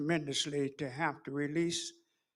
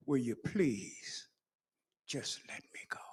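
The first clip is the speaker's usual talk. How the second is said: whispered plea; 3 semitones lower than usual. Retold or imitated. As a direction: breathe it like a dying wish. Dying woman's last plea.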